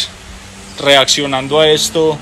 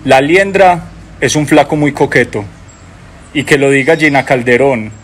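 poem recital; 3 semitones lower than usual. Acted. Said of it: "este verso dice así".

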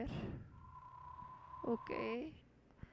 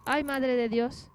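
loud, slow gasp of alarm; loud startled "Ay, madre de Dios"; startled exclamation; 10 dB louder, slower than usual. Real, not acted. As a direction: blurt it out, properly spooked. Startled reaction while playing.

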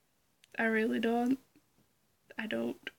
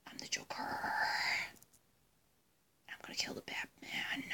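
hushed, whispery villain voice; Joker; 6 dB quieter than usual. Acted. Vlogger imitating the Joker for viewers, creepy whisper. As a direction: whisper it like a brooding madman. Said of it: "that was my Joker impression".

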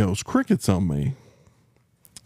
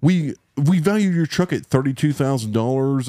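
higher, hedging salesman tone; mock adjuster; 4 semitones higher than usual. Mimicking the adjuster's evasive, higher-pitched hedging. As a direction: fumble like a smooth-talking adjuster. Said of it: "he's like".

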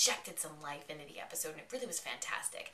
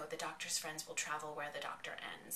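imitated whisper; 5 dB quieter than usual. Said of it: "a whispering voice go".

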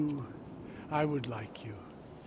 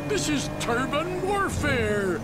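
mock tough action-hero growl; Al Di Napoli impression. Fan asked by friend to do the star's line, hammed up. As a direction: ham up the movie star's catchphrase. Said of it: "do your Al Di Napoli line".

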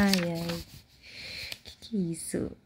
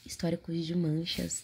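whispering. Acted. Whispered prompt.

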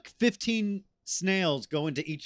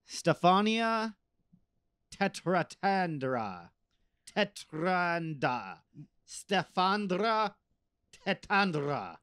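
Count Chocula; 4 semitones higher, slower than usual. Pretend. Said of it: "You sound like Count Chocula".

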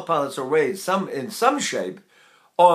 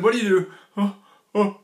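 higher voice, as if about to sneeze; pre-sneeze; 5 semitones higher than usual. Shown as a demonstration. Voice teacher quoting a singer's trick, pre-sneeze lift. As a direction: lift the voice like the breath before a sneeze. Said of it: "the pre-sneeze".

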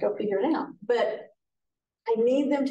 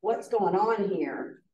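slow, easy pleasant tone; calm curiosity, not anger; a gentle, unhurried whoa; much slower than usual. Shown as a demonstration. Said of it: "I can have a pleasant voice".

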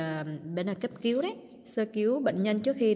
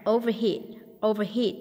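"overheat" stressed on its last syllable; stress on third syllable; faster than usual. Shown as a demonstration. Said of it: "nhấn âm ba". (nhấn âm ba "overheat")

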